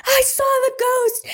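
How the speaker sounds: put-on high, frightened little-kid voice; imitating a sobbing child. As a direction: plead like a terrified four-year-old. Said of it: "she's like".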